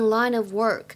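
"in an" and "line of" run together; linking. Shown as a demonstration. Teacher demonstrates linking for students. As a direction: link "in an" and "line of" smoothly. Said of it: "可以连读".

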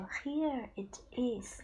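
Here it is said slowly, stress on Here; slow teaching model of Here it is; slow model phrase. Shown as a demonstration. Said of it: "你说".

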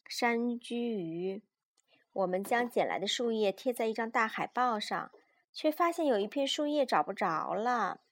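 put-on lively, measured read-aloud for small children; children's story narration. A narrator's reading. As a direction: read a picture book to a child.

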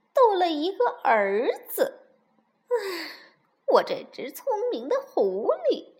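exasperated sighing lament building to a loud finish; sigh, then burst out at your own folly; rueful self-reproach. Acted. Fox laments losing his meal, exasperated self-reproach.

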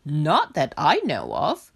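a practical pig on wash day; Pig's voice. Acted.

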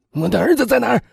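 loud, high anguished demand; grief-stricken shout. A narrator's reading. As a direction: demand your son's whereabouts in anguish. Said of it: "他的声音不胜悲痛". (悲痛地大声质问)

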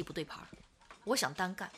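hushed whisper, leaning in; quietly confessing he wants to go solo; whispered secret. Acted. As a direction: let the plan slip out in a whisper. Confiding secret plan to friend.

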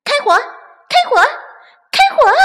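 high shouted orders to fire; battle cry. Acted. Little chicks shouting fire at the weasels. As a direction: yell fire at the enemy.

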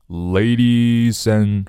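"ladies and" drawn out very slowly, run together; linked words. Shown as a demonstration. Teacher showing learners the link, slow linked "ladies and". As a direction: stretch "ladies and" into one linked sound. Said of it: "我们连起来".

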